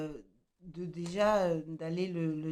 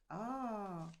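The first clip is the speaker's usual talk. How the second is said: effortful grunt; 3 semitones higher, 4 dB quieter than usual. Real, not acted. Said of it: "j'arrive pas à l'ouvrir".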